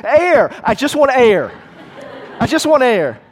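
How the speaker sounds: high, loud cry for air; half-drowned young man pleading with the teacher, loud and desperate; desperate plea. Acted. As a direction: beg for air like you are drowning.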